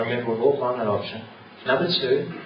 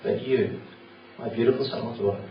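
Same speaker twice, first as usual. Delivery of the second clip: lovingly; 2 semitones lower, 3 dB quieter than usual. Acted. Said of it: "And Jesus will look at you lovingly".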